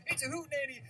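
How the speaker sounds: lightly voiced tournament announcer. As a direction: commentate the match with hype. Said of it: "that stupid announcer voice".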